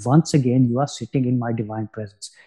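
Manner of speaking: put-on light Indian accent; hint of an Indian accent. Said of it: "in a perfect Indian accent".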